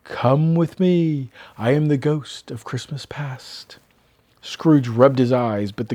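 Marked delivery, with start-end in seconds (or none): 0.1-3.8 very slow, softer ghost voice; ghostly voice. Acted. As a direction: summon him slowly and eerily.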